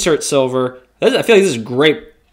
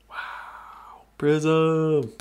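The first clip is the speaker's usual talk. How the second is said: breathless whispered wow; awed whisper; 9 dB quieter than usual. Real, not acted. Breaker awed by a prism card, whispering. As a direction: hush in awe at the prism. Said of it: "Sorry, I celebrate".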